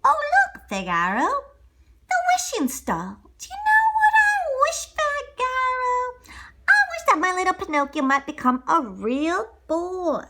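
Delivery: put-on old toymaker thrilled at the wishing star; excited Geppetto. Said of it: "Geppetto looked out the window".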